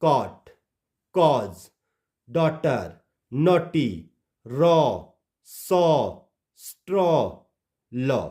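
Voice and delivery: rounded 'aw' in कॉट, कॉज, डॉटर, नॉटी, रॉ, सॉ, स्ट्रॉ, लॉ; model vowel. Shown as a demonstration. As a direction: read out कॉट through लॉ with 'aw', pausing after each word. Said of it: "आ के रूप में पढ़ेंगे". (कॉट से लॉ तक हर शब्द में 'ऑ' की गोल आवाज़)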